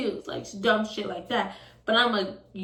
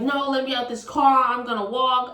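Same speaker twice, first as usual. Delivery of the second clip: raised, higher demand; retold yelling; 4 semitones higher, 5 dB louder than usual. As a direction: re-enact yelling to be let out. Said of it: "I'm yelling, I'm like".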